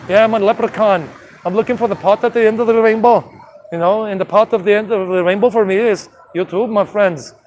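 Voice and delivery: lightly put-on Irish leprechaun accent; playful, rough Scottish-Irish brogue. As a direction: attempt a blend of Scottish and Irish. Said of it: "trying to do like a combination of Scottish and Irish".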